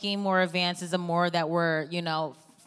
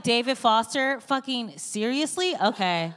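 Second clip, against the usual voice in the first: mock incredulity; 4 semitones higher, 4 dB louder than usual. Mock incredulity at celebrity pairing.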